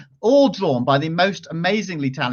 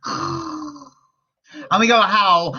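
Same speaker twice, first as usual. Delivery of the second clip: howling; 7 semitones higher, much slower than usual. Shown as a demonstration. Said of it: "do the sound of the hungry-eyed creatures".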